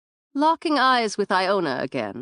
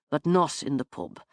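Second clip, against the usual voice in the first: lower, settled man's voice shutting it down; firm male refusal; 5 semitones lower, 4 dB quieter than usual. Acted. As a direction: close the matter calmly as the man. Finn firmly closes the topic.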